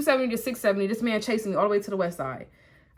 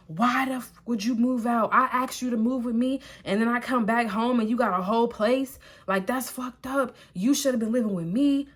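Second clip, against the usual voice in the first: a touch of retold anger, pitch a bit raised; mock angry ex; 3 semitones higher than usual. Ex shouting about her moving out, mildly mock angry. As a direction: replay his complaint with mild heat. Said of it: "all of a sudden he gets mad".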